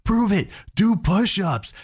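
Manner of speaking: put-on a child daring his friend to prove it; challenging kid.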